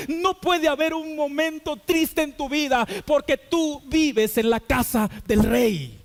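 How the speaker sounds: slow, drawn-out sermon cadence with a musical lift; slow preaching. Acted. Preacher to congregation about living in God's house, slow impassioned preaching. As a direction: stretch each phrase like a pulpit appeal.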